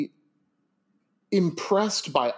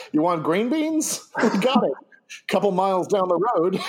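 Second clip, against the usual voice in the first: salesman pitch; 3 semitones higher than usual. Pretend. Mock salesman pitch, laughing.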